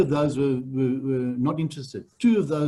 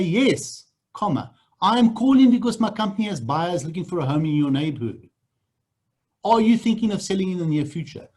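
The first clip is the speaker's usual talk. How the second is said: upbeat, affirming sales pitch; positive pitch demo; 3 semitones higher than usual. Shown as a demonstration. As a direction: sell it with a smile. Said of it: "You say".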